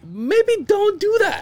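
slow, high laughing retort; stifle a laugh while advising; laughing advice. Retold or imitated. Son tells his dad not to call mom, laughing.

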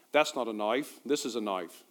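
badly faked Australian accent, a bit low; Crocodile Dundee. Pastor quoting a film line to the congregation, poor Australian accent. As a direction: attempt an Australian movie-hero accent and not quite get it. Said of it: "I'm terrible at accents".

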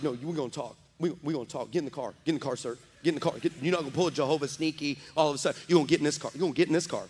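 mock-stern, held-down scolding; contained anger. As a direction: order them along under your breath. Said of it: "I am mad at God".

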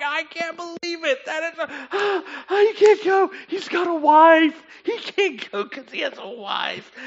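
high-pitched acted hysterics; imitating a crowd in stitches; roaring hilarity. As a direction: squeal it, overcome with amusement. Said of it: "they roared. They are slapping their knees".

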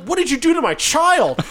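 high, loud, indignant demand; accusing mother impression. Mother turns on the man beside her bawling child, imitated outrage. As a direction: play an outraged mother confronting a stranger. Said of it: "she looks at me like".

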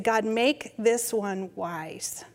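very slow, reverent blessing. Retold or imitated. Grandmother blessing the baby in the bath, slow prayer.

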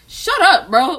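loud, high Boston imitation; Boston accent. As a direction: bark it like a Bostonian. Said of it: "a Boston accent".

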